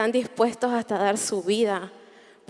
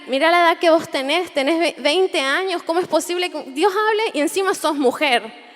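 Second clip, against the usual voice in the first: incredulous captain; 4 semitones higher, 3 dB louder than usual. Retold or imitated. Captain baffled by her faith.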